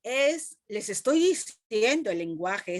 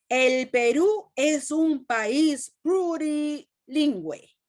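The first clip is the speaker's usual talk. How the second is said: higher, slow exclamation read with feeling; exclaimed; 4 semitones higher, slower than usual. Shown as a demonstration. Teacher reading the example to her class, exclaiming. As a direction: read it as if it ends in exclamation marks. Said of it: "signos de admiración".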